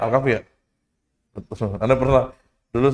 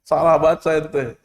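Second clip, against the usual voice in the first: scolding sheikh. Retold or imitated. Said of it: "sampai ditepok".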